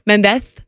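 "Mendez" with a Castilian th at the end; Spanish pronunciation. Shown as a demonstration. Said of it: "like in España".

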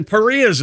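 Paris as "puh-REE", no final S; French pronunciation. Shown as a demonstration. Co-host pressing the argument, Paris said the French "puh-REE". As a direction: stress the second syllable of Paris, "puh-REE". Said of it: "not Paris".

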